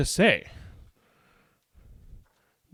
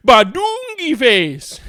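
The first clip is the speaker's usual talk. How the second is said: loud, slow goofy nonsense noises; silly sounds; 13 semitones higher, 9 dB louder, much slower than usual. Acted. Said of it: "make silly sounds".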